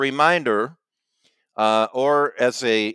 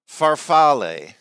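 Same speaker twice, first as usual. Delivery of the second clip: slow, higher, showy Italian accent; fake Italian accent; 5 semitones higher, 4 dB louder than usual. Real, not acted. Host presents a pasta name to his co-host, fake Italian accent. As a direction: draw the word out in a put-on Italian accent. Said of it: "You put on this fake accent".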